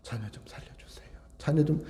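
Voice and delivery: barely audible whispered plea; silent inward prayer. Shown as a demonstration. Parent praying inwardly for a dying child, whispered. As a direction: whisper it under your breath. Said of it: "속으로".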